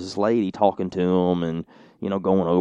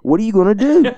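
imitated Cajun lady, much higher and louder; Cajun accent; 13 semitones higher, 8 dB louder than usual. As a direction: repeat the question impatiently in a Louisiana accent. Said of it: "a very strange accent".

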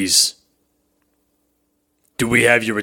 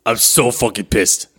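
put-on angry New York accent; pissed-off man talking like a New Yorker; slower than usual. Boss fuming at absent colleague, angry New York accent. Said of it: "because his accent changed".

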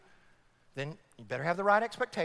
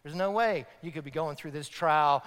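Satan's whisper; 5 semitones lower than usual. Retold or imitated. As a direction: murmur like the tempter sowing doubt. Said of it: "Satan whispers to us and say".

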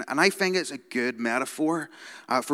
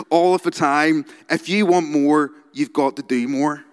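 aggressive motivational speaker; 2 semitones higher, 5 dB louder than usual. Retold or imitated. Quoting the entrepreneur to the congregation, aggressive and loud. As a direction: bark it like a hustle guru. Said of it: "I'm gonna read you some of his quotes".

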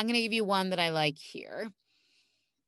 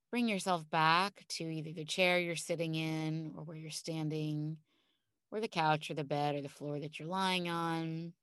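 calm grounding exercise; 3 dB quieter than usual. Acted. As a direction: guide them gently into calm. Leads a guided visualization.

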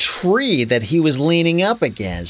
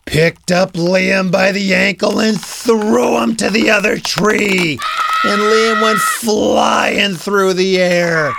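excited narration; 3 semitones higher, 4 dB louder than usual. A narrator's reading. Narrator as the boy gets thrown, high and thrilled. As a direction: stretch it out high as he flies.

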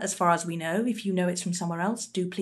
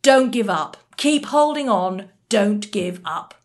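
rallying cry; 7 dB louder than usual. Acted. Rallying slogan declaimed as translation.

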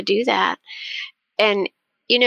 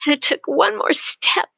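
imitating a proud, excited little boy, higher; excited child; 7 semitones higher than usual. Grandson proudly finishing his story to Mimi, excited. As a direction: retell the triumphant ending with eager lift. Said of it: "he was so excited".

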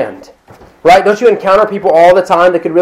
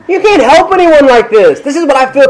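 laughing; 10 semitones higher than usual. Real, not acted. Pastor to congregation after a joke, laughing. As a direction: still laughing through the point.

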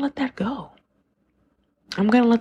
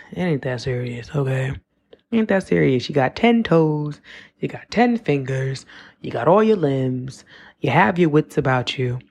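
mildly reassuring inner voice; easy, measured reassurance to yourself; self-soothing talk; 3 semitones lower than usual. Acted. Voicing her body soothing itself.

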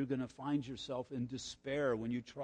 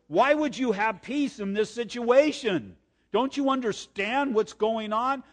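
incredulous worldly voice; 7 semitones higher, 8 dB louder than usual. Retold or imitated. The world questioning calm believer.

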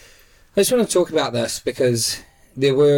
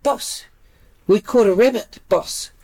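mock worker voice; 8 semitones higher than usual. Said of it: "He's like".

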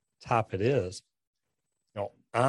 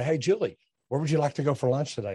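brisk direct question; 3 semitones higher, faster than usual. Retold or imitated. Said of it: "I'm direct to the point".

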